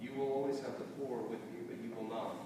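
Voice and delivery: measured, reverent Bible reading with pauses between phrases; slow scripture reading. Real, not acted. Pastor reads for listeners imagining the text, slow scripture reading. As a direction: read scripture aloud unhurriedly, letting each phrase settle. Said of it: "read the text a little slowly".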